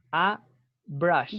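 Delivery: "a brush" said slowly and carefully; pronunciation model. Shown as a demonstration. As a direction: model "a brush" for learners, unhurried. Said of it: "Y se pronuncia".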